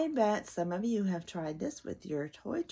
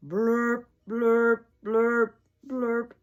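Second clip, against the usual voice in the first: loud blaring horn noise; horn blurp; 5 semitones higher, 10 dB louder, much slower than usual. Acted. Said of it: "He can go like a horn".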